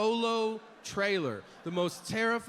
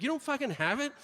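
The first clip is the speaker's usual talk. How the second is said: incredulous; 4 semitones higher than usual. Retold or imitated. Incredulous at dealer.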